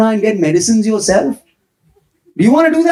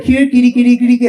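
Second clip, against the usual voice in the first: calling a cat; 4 semitones higher, faster than usual. Acted. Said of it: "cat coming over to your house and you're like".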